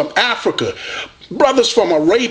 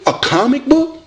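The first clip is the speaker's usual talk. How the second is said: mocking disbelief; 6 semitones higher than usual. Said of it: "they look at you like".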